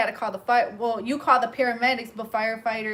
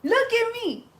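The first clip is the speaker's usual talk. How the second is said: put-on high, slow, pissed-off drunk voice; imitating an angry drunk; 8 semitones higher, 5 dB louder, slower than usual. Retelling how the drunk man yelled at the firefighters, high and angry. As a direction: mimic the drunk's outrage, dragged out. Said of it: "That man was so pissed".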